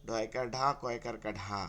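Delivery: Barisal-style spelling chant, lightly done; imitated Barisal village accent. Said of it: "আঞ্চলিক ভাষাটাকে টানে বেশি".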